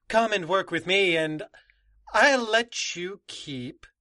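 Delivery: slow build to a loud, high finish; slow, then punch "your lives" with menace; menacing threat. Acted. Villain threatens union.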